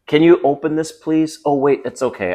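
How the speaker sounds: high, pleading mock request; mock girlfriend voice. Man imitating his girlfriend handing him a jar, high and sweet. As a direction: play her asking sweetly, then cutting in. Mimicking girlfriend asking for help.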